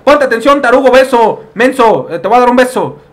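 high, loud scolding; hammed-up cantina owner rant; angry bartender voice. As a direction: berate the clumsy player. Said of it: "está diciendo".

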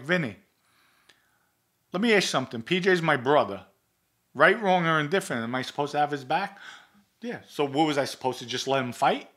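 heated argument. Retold or imitated. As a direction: push back at him, fired up and indignant.

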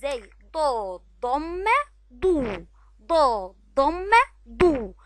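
ضاد ضمة ضو very slow, lips rounded on ضو; slow syllable drill. Shown as a demonstration. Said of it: "ننطق الحرف بالضمة بنعمل ايه". (تهجئة بطيئة جدا مع ضم الشفتين في ضو)

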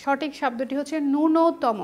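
ন্যূনতম said slowly, each sound clear; slow model of ন্যূনতম; careful correct word. Shown as a demonstration. Teacher shows the right word to students, slowly. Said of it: "এটার সঠিক উচ্চারণ হচ্ছে".

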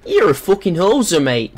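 bad Canadian slipping into British or Australian; botched Canadian accent. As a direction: attempt Canadian, land somewhere near Australian. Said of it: "That was trying to be Canadian, but that's fucking British or Australian".

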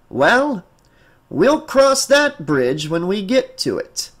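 lightly voiced official putting her off; measured, noncommittal answer after hesitation; evasive psychologist. Psychologist evades the mother's question.

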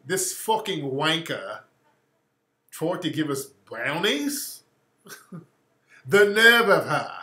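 lightly imitated British accent; slow, polite British indignation, put on. UK friend insulting the brownie giver, mock British accent. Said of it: "they're so polite".

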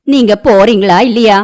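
fed-up and forceful; exasperated. Acted. Anju orders the neighbours out.

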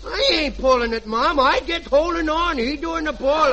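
an innocent-acting brat denying it; little boy. Junior denying to his mother, bratty protest. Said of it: "and I'll be the little boy".

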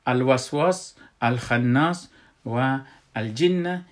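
"الوسواس، الخناس، الجن" each with a clear al-; moon lam pronounced. Shown as a demonstration. Teacher giving examples of moon lam, each l read out.

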